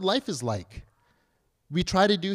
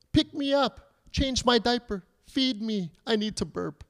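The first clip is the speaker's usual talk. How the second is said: a hint of a needy newborn, higher pitch easing down; short higher-pitched demands, lightly playing a baby; lightly voiced demanding baby; 6 semitones higher than usual. Newborn wanting mommy and daddy's attention, lightly voiced demands. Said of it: "all these different things. He's not talking".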